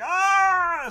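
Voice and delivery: sudden high yelp of guards in shock; startled shout. Acted. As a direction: cry out, caught off guard. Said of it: "they're like".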